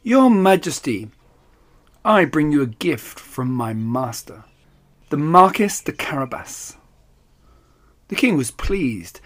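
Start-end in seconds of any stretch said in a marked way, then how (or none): 0.0-6.8 courtly cat. Acted. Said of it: "bowed low before the king and said".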